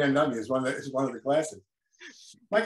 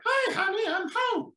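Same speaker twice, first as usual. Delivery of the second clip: much higher, stretched puppet-dad greeting; Earl's voice. Retold or imitated. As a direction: sing it up high like the dinosaur dad. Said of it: "Mac was doing the voice".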